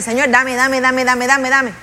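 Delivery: imitated impatient pleading, "dame" repeated without a break; mock desperate, insistent nagging; anxious begging. Preacher imitating an impatient believer nagging God, anxious begging. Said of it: "con esa ansiedad, con ese desespero".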